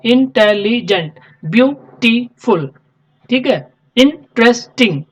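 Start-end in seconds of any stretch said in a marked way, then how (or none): 0.0-2.7 "इंटेलिजेंट" and "ब्यूटीफुल" said slowly, syllable by syllable; phonics style. Shown as a demonstration. Teacher sounds out long words syllable by syllable for students. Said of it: "words को जोड़ जोड़ के सिखाया जाता था".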